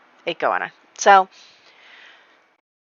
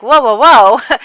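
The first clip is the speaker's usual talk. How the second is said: stopping him; 5 semitones higher, 10 dB louder, slower than usual. Retold or imitated. Stopping a kiss.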